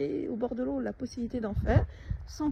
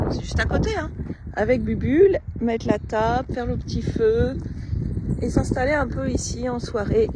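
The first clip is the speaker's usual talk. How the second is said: raised voice against gusts; shouting over wind; 6 dB louder than usual. Real, not acted. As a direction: project loudly over the wind. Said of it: "Voilà le vent, je suis désolée".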